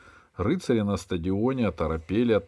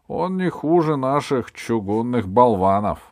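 высокий громкий довод спорщика; заступайся, перекрикивая спор; возражение; 5 semitones higher, 7 dB louder than usual. A narrator's reading. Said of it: "возражал шут". (громко возражая)

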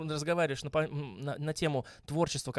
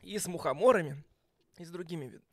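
choking on a drink. Real, not acted. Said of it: "Я ж подавился".

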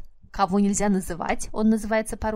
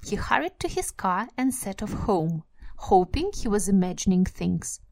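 story reading. Acted. Reads the passage again.

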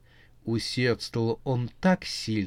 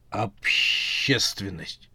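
a slow, otherworldly zombie drag; 4 semitones lower, much slower than usual. A narrator's reading. Zombie foreman answers the witch, slow and otherworldly. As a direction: stretch the word out like a dim zombie.

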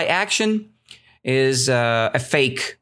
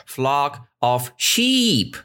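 normal talking voice

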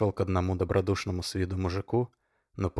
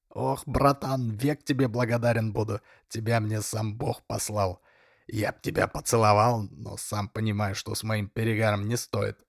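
grateful exclamation; 2 semitones higher than usual. Acted. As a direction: exclaim with drunken gratitude. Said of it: "воскликнул".

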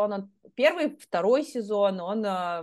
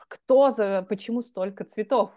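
put-on French accent; 4 dB louder than usual. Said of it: "французским фарсом такой говорит".

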